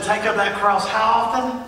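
loud, high question to the congregation; preacher calling out for the congregation's answer; call for response. Shown as a demonstration. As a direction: pull the answer out of the crowd. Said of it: "That sounds a little better".

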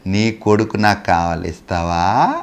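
low, soft question; quiet demand. Retold or imitated. God asking Abraham for his son, low and quiet. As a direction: ask gravely, voice dropped.

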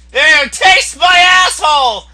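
loud, high, drawn-out taunt; gloating battle yell; taunting shout. Real, not acted. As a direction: shout it at your opponent, stretching the words. Taunting opponent mid-fight.

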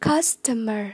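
"Customer" stressed on CUS; weight on CUS in "Customer", the rest lighter; stress on first syllable. Shown as a demonstration. Teacher modelling vocabulary for learners, "Customer" stressed on CUS. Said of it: "nhấn âm một".

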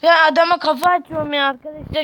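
excited outro. Real, not acted. Signing off to friends, fast excited shout. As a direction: blurt the sign-off in a rush.

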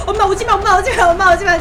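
loud laughing panic; pleading the monster away; scared horror game streamer. Real, not acted. Monster approaching again. (겁먹고 웃으며 애원)

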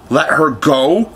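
drawn-out question climbing on "go"; incredulous cry. A narrator's reading. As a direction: echo it in disbelief, stretched out. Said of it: "cried Hook".

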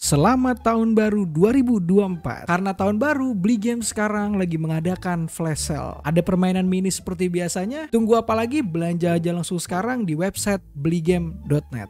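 bright promo read for the store's sale; sponsor ad read. Acted. Streamer reading a sponsor ad to viewers, upbeat promo. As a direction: pitch the flash sale like an ad.

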